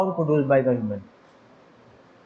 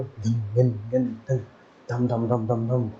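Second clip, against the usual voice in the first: imitated drum beats; 3 semitones lower, 4 dB quieter, slower than usual. Shown as a demonstration. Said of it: "ऐसे करके आवाज़ आती है".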